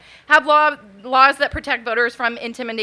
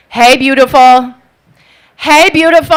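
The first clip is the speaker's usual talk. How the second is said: mock catcaller getting louder; calling louder and louder; 11 dB louder than usual. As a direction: shout it after her down the street. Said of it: "he gets louder and louder".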